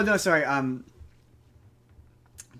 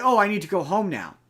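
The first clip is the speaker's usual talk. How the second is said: higher, louder mock announcement; abrupt, put-on change of heart; mock sudden realisation; 4 semitones higher, 5 dB louder than usual. Mocking the hero's sudden exit, abrupt. Mocks abrupt movie ending.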